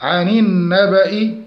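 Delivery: measured recitation of عن النبأ; Quran recitation demo. Shown as a demonstration. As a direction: hold the doubled nun in عن النبأ. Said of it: "اتحرك إلى الكسر".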